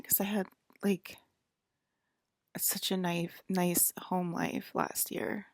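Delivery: whispered through tears, slow; real crying. Real, not acted. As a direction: whisper it slowly while really crying. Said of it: "Why am I crying?".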